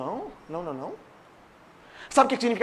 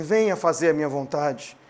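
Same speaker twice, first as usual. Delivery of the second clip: put-on low, coaxing voice of the old master; old master sin voice; 5 semitones lower than usual. Preacher voicing sin as the old master, low coaxing. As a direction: lure them back like a slave owner, lightly. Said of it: "vira e fala assim".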